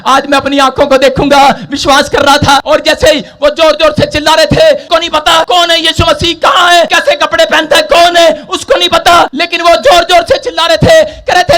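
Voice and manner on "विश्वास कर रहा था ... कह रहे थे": loud, high-pitched sustained sermon delivery; full-force preaching. Acted. Preacher retelling Jericho to the congregation, full-force preaching. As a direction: preach it in a driving, unbroken shout.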